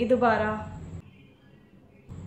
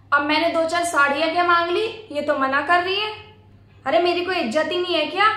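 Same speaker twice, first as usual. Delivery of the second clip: fast, higher, indignant whine; aggrieved complaint; 3 semitones higher, 3 dB louder, faster than usual. Acted. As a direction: rush the grievance out to mother. Complaining to mother. (तेज़ शिकायती लहजा)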